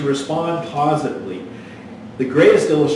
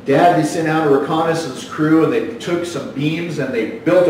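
put-on boy's story; 2 semitones higher, 5 dB louder than usual. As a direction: kid rushing his tale up to the climax.

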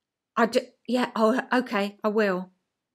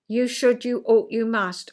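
stern parent; 3 dB louder than usual. Retold or imitated. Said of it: "in answer to parent".

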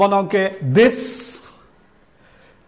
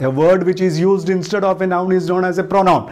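slow dictation; much slower than usual. Shown as a demonstration. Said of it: "അതുകൊണ്ട് നമ്മൾക്കറിയാം".

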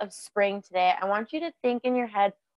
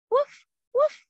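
high yappy woof woof, fuller than the little one; bigger bark; 3 dB louder than usual. Pretend. Teacher leading kids in a full puppy bark. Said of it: "and bark".

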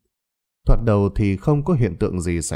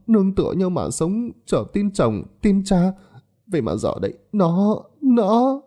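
high, breaking into tears; tearful mother; 9 semitones higher than usual. A narrator's reading. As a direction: grief overwhelming her words. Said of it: "không kìm nén được cảm xúc". (người mẹ nghẹn ngào, giọng cao vỡ òa)

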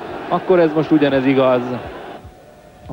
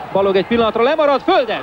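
excited; 8 semitones higher, faster than usual. Real, not acted. Chance in front of goal.

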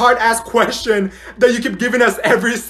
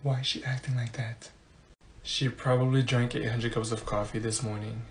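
low, hushed classroom grumble; muttered aside; 10 semitones lower, 15 dB quieter than usual. Acted. Student to classmate about the perky teacher, low muttered aside.

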